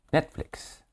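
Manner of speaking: unvoiced whisper of the word. Real, not acted. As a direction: breathe the name. Whispered aside.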